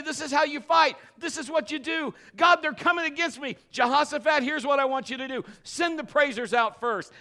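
loud, high commanding preaching; proclaiming God's battle plan; God's voice, preached. Retold or imitated. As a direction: deliver God's orders with fire. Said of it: "He'll tell you".

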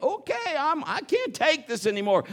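high, loud exasperated give-up; defeated enemy. Retold or imitated. The enemy gives up against the praying wife, high and loud. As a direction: throw up your hands in defeat.

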